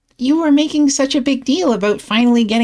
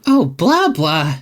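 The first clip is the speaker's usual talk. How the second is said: dismissive blah; 4 semitones lower, much slower than usual. Real, not acted. Dismissive reply to friend.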